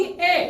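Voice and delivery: ए as a brief 'eh', letter E's short sound. Shown as a demonstration. Teacher answering what E's short sound is, short ए. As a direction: give a short, isolated 'eh' for ए. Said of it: "ई की short sound क्या होगी".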